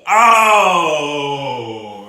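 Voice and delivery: loud pained yell; shout. Real, not acted. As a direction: cry out as the heat hits. Tasting the hottest wing.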